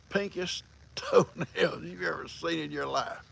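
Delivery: slow, drawn-out words through a laugh. Real, not acted. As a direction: chuckle through the punchline. Laughing at own punchline.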